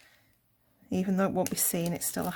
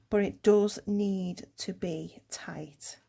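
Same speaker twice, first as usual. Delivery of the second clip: holding breath; slower than usual. Real, not acted. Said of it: "I'm holding my breath".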